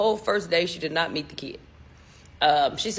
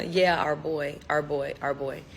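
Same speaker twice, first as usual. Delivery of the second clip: imitated chuckle; 4 semitones lower, 4 dB quieter than usual. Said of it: "they'll, like, chuckle".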